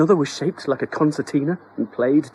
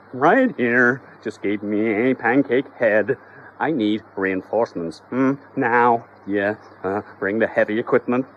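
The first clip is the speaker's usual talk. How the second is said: slurring. Acted. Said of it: "slurringly into his mobile phone".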